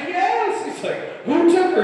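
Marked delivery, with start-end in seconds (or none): 0.1-0.6 high, slow, wailing cry of a panicked father; frantic panicked dad. Retold or imitated. Belle's dad bursts into the tavern, high panicked wail. 1.2-1.8 mock alarmed question. Gaston asking.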